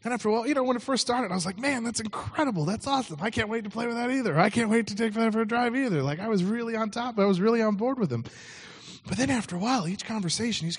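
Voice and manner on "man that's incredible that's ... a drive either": eager enthusiasm. Retold or imitated. Enthusiastic reply to friend's boasts.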